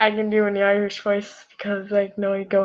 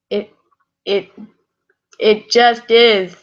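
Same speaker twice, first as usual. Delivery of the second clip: slow embarrassed reply; 5 dB louder, slower than usual. Acted. Embarrassed character answers.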